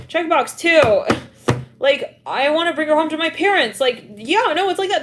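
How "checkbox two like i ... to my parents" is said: raised, louder eager voice; giddy announcement of love; excited confession. Retold or imitated. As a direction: blurt it out with excitement. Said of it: "I'm hearing".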